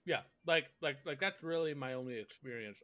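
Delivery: talking around an ice cube; words mushy with ice in the mouth. Real, not acted. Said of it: "I just put an ice cube in my mouth".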